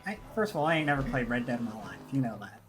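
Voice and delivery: put-on Southern cowboy accent. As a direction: talk like an old Western cowboy. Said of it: "forget to turn the accent off".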